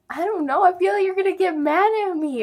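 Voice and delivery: high, rushed mock-tearful confession; imitated crying. Daughter confessing to dad, mock-tearful and high. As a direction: blurt it out like an upset kid, hammed-up. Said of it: "I started crying really bad".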